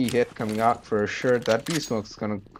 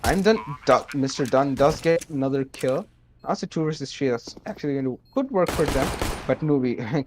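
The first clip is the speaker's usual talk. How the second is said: play-by-play casting; 2 semitones higher than usual. Acted. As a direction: hype the one-versus-two clutch. Live esports match commentary.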